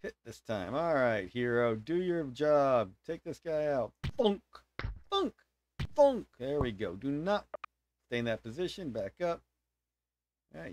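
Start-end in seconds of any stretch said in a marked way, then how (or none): 4.2-6.3 short punchy thunks with gaps; abrupt "thunk" sound effects; imitated thunk. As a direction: mimic each blow landing, one at a time. Imitates hits landing in game.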